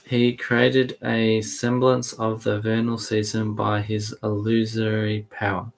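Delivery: deliberate read-aloud with spaced phrases; measured storybook recital; scripture narration. A narrator's reading. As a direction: read the tale out carefully, pausing between images. Co-host reads scripture aloud.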